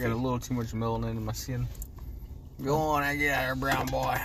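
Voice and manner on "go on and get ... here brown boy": mean homeowner. Acted. Acts homeowner chasing him away.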